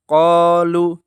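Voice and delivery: qalu with a short lu, quick and clipped; wrong short qalu. Shown as a demonstration. Teacher showing the mistaken short qalu for contrast. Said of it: "lunya dibaca pendek".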